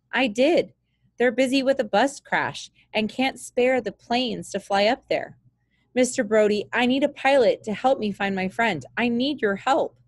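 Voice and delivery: a hint of a scared kid begging for help; worried boy. Jake begs Hank.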